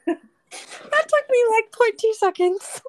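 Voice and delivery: can't stop laughing while talking. Real, not acted. Laughing after the joke.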